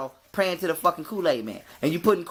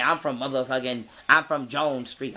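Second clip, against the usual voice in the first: mocking gang boast; 6 semitones lower than usual. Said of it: "You niggas repping gang".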